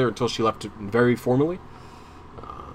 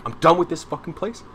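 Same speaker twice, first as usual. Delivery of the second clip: fed-up outburst; 6 semitones higher than usual. Retold or imitated. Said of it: "threw my hands up in the air like".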